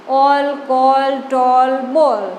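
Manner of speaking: ઓલ, કોલ, ટોલ, બોલ slowly stretched on the shared -all ending; drawn-out rhyme demo. Shown as a demonstration. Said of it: "ઓલની જેમ જ બોલાય છે". (ઓલ, કોલ, ટોલ, બોલ લંબાવીને સરખા પ્રાસમાં)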